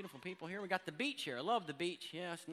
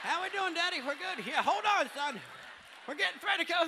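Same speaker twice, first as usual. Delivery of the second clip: mock redneck father and son; 7 semitones higher than usual. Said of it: "Like, right there".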